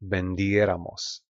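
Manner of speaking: Vendiéramos slowly, stressed on DIE, ven-DIE-ra-mos; stress on accented E. Shown as a demonstration. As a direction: model Vendiéramos with weight on the accented é. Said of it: "Make sure you stress there".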